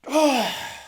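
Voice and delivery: high, loaded sigh; emotional sigh. Retold or imitated. Reviewer acting out watching the show, emotional sigh. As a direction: sigh as if holding back tears. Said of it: "Fighting back the tears".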